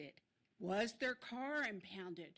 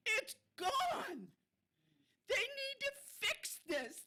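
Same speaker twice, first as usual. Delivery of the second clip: high, breaking, louder on the edge of tears; tearful cry; 10 semitones higher, 4 dB louder than usual. Real, not acted. Speaking to the council about the crash, tearful and breaking. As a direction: let the grief break through. Upset citizen at council meeting.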